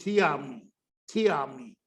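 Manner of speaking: "थी army" with the as thee; teacher's model; "the" before vowel. Shown as a demonstration. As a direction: stress the long ee of "थी". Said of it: "तो दी army है ये शब्द".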